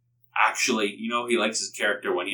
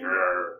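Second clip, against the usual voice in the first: serious growl; 5 semitones lower, 4 dB quieter than usual. Acted. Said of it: "he gets all serious".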